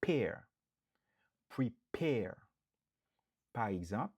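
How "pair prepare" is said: PAIR pulled out, then Prepare whispered with PARE stressed; stress on second syllable. Shown as a demonstration. Drilling the second-syllable stress for students. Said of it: "sou dezyèm nan".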